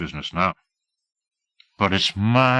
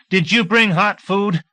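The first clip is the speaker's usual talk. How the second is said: higher, louder, slow eager plea; eager question; 11 semitones higher, 4 dB louder, slower than usual. A narrator's reading. Hungry deputy asking Singleton, eager plea. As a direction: press them hopefully for food.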